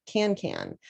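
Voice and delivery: each syllable beaten out evenly; can, can pounded syllable by syllable. Shown as a demonstration. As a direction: tap out every syllable. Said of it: "you need to pound".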